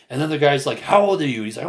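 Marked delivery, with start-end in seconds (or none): 0.8-1.4 high, louder imitated demand; retold challenge. Younger man challenging older protester, imitated heated demand. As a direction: challenge him, as quoted from a quarrel.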